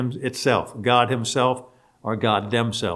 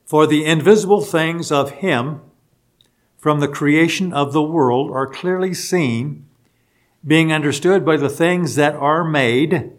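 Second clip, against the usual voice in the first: raised, louder Bible-reading voice; scripture reading; 4 semitones higher, 4 dB louder than usual. Acted. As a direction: read the verse out firmly to the congregation. Reads a scripture verse aloud.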